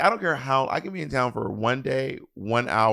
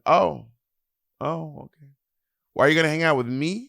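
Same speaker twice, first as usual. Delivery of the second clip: higher voice of a put-out mother; mom's voice; 4 semitones higher than usual. Retold or imitated. Mom asks if child will see her, mock put-out. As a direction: imitate a mother angling for attention. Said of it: "She goes".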